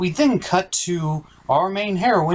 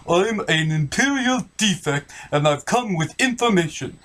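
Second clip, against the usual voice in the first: defector voice. Acted.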